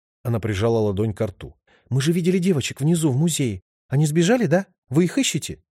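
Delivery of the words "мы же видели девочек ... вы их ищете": put-on higher, worried girl's voice; frightened heroine, higher voice; anxious young woman. A narrator's reading. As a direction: press him anxiously, pitched up. Lipa asks about the girls.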